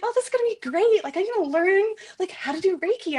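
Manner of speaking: high-pitched, eager retold thought; naive enthusiasm. Recalling walking into level one Reiki training, imitated excitement. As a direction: imitate an upbeat beginner, pitched well up. Voices her naive past self starting training.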